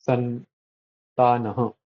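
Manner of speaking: "santanaha" said slowly, syllables measured out; long and short syllables. Shown as a demonstration. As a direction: draw out "santanaha" slowly to show syllable length. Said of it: "that is the long and the short pronunciations".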